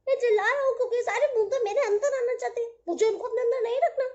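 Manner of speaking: loud grumpy cloud refusing entry, fast; a cloud barking at the droplets to keep out; grumpy cloud shouting. Acted. Cloud explaining loudly.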